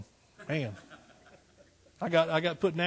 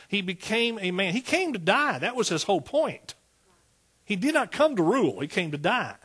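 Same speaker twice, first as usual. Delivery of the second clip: emphatic, sing-song preacher's cadence; fervent preaching; 4 semitones higher, 4 dB louder than usual. Real, not acted. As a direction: press each point on the congregation. Preaches with force on Jesus.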